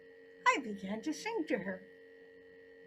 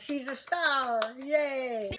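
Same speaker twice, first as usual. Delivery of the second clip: loud praise; 5 dB louder, much slower than usual. Real, not acted. Praising child after song.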